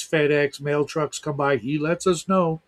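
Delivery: usual speaking voice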